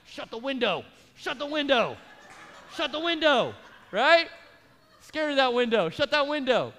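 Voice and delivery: panicked shouting. Retold or imitated. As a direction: beg them to shut the window, mock panic. Yelling at girl by window.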